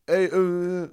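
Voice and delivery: mock mumbled opener with a drawn-out hesitation; imitated mumble. Guest retells stranger's unclear approach, imitated mumble. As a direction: slur the words lightly, imitating a mumbler. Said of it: "so ein bisschen so genuschelt".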